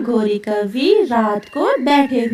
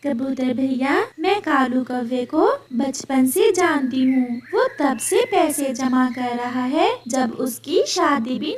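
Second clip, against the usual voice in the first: gossiping sparrow; 4 semitones higher than usual. Acted. (धीमी आवाज़ में चुगली करती चिड़िया)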